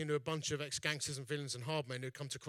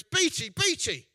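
excited greeting; 12 semitones higher, 9 dB louder, slower than usual. Retold or imitated. Matt bouncing over, excited.

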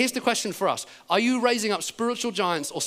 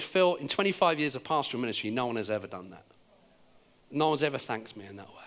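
low, subdued imitation of a touched pastor; understated emotion, pitch dropping; moved, retold; 5 semitones lower than usual. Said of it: "he is starting to weep".

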